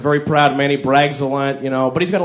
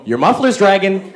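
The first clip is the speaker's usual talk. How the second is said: helpful stranger; 3 semitones higher, slower than usual. Retold or imitated. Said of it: "who's gotta go".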